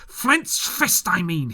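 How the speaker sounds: high, loud correction; cry. A narrator's reading. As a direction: cry out impatiently. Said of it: "he cried".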